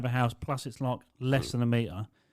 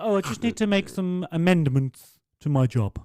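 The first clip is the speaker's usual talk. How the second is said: put-on old lady voice; 7 semitones higher, 6 dB louder than usual. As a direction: drag it out like a confused old dear. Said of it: "She's like".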